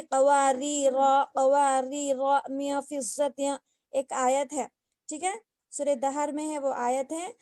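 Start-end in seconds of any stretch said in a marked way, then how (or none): 0.0-3.6 slow, drawn-out कवारी रा; Quranic recitation demo. Shown as a demonstration. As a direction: recite कवारी रा slowly, then मिया फिज़्ज़त. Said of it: "हम क्या करेंगे".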